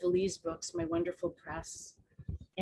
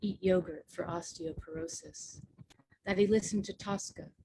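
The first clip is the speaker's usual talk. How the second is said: measured recital, phrase by phrase with pauses; poem reading. Acted. Poet reads a eulogy to her dad, measured poetry reading. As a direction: read it as narrative verse, evenly paced.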